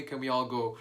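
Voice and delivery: plain reading voice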